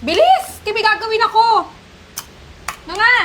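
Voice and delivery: sharp, high shouted order; high, angry shout to hurry up; angry yell. Acted. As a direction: bark at the old woman to hurry. Abusive carer yelling at elder.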